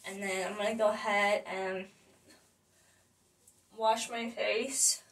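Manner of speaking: talking while brushing teeth; words round a toothbrush. Real, not acted. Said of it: "right now I'm brushing my teeth".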